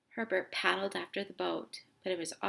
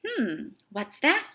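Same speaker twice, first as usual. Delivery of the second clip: surprised gasp; 3 semitones higher, 8 dB louder, slower than usual. A narrator's reading. Fisherman spots something.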